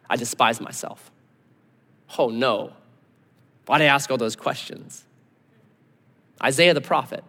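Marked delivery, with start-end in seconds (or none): 0.1-5.0 low, subdued self-reproach; acted sheepish remorse; chastened regret. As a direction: shrink back, voice dropped and soft. Job humbled, God appears.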